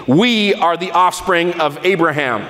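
a touch of proud indignation, held back; mildly indignant. Retold or imitated. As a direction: let the crowd sound a little offended. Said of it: "I believe they probably said it indignantly".

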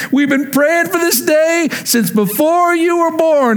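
slow, high, lightly voiced old church lady; a hint of the godly lady, gushing slowly. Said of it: "she goes".

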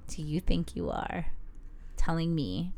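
slow, hammed-up angry snap; playfully indignant, drawn out; mock outrage. Wife scolding husband for telling her to settle down, mock angry. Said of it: "You're very aggressive".

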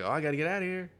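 girl escaping the library in mock panic. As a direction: panicky girl fleeing tentacles. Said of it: "she's just like".

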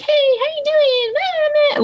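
very high, slow singsong hello; cheery greeting. Retold or imitated. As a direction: gush a sugary nurse welcome. Cheery unit greeting mocked.

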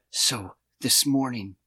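slow, clenched-jaw delivery; through gritted teeth. Retold or imitated. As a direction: speak with the teeth pressed shut, slowly. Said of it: "I'm gonna speak through my teeth the way he speaks".

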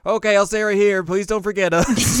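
put-on high, loud childlike plea; little girl voice. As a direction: beg them not to forget you, kid-like. Voicing Ren pleading.

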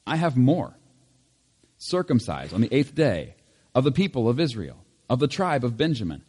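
emphatic reading aloud of an epistle; scripture reading. Acted. Pastor reads Paul's letter to the congregation, emphatic scripture reading. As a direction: deliver the letter clearly, lifting key phrases.

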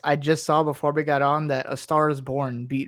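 glitchy robot voice from a bad connection; choppy robotic internet call. Real, not acted. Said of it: "you had a lot of robot voice on that".

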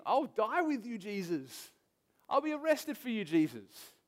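high-pitched mock bravado; imitating a zealous follower; brave, bold vow. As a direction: pledge it boldly, pitch lifted then dropping on the name. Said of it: "brave, strong Peter".

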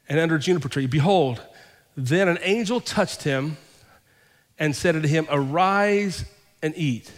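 drawn-out, reverent reading of the angel's words; savoring the verse for the congregation; slow scripture reading. Acted. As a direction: linger on each phrase like a holy message. Reads scripture slowly.

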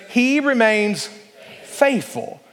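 slow, deliberate recitation; unison recitation. Shown as a demonstration. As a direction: lead the room in saying it together. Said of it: "Can we all say that together?".

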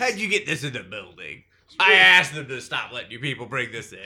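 loud, fed-up scolding; angry custodian. Acted. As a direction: bark it at the fans like a sick-of-it janitor.

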